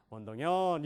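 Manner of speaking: 원동연 landing on 연; stress on 연. Shown as a demonstration. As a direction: put weight on the 연. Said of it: "혹시". (연 강세)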